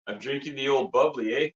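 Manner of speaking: put-on Canadian hoser accent; lightly hammed-up Canadian accent; funny Canadian accent. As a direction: play a comic Canadian hoser. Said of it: "so he talks a little funny".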